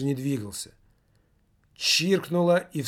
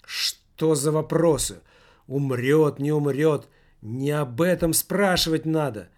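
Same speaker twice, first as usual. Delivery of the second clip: indignant; 2 semitones higher, 3 dB louder than usual. Acted. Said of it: "Возмутился кто-то".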